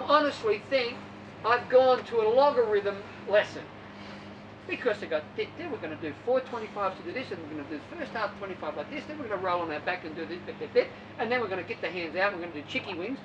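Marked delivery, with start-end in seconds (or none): 5.4-13.2 1 mocking drill instructions. Mocking masters coach drills.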